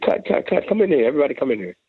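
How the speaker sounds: producer calling out. Retold or imitated. Producer stopping the recording, urgent call. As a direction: halt the take and summon the room. Producer stops session, calls everyone.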